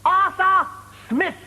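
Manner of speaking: high "Arthur Smith" with crisp TH in both; over-corrected TH. Acted. Interviewer drilling applicant, "Arthur Smith" with emphatic TH.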